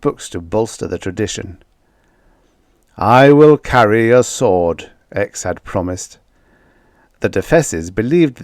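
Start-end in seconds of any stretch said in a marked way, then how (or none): 3.0-4.9 louder, solemn vow; a touch of a booming divine voice; deity's promise. Acted. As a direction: declare it like a god.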